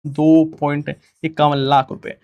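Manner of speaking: slowed down, each number spelled out; slow emphatic repeat. Shown as a demonstration. Teacher repeats the prize amount slowly for the class. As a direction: say the amount again slowly so students note it. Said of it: "और उसके साथ ध्यान रखना है".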